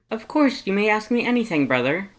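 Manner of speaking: loud, high, excited skeleton voice; booming cheerful Papyrus. Acted. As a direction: boom it out, eager and proud.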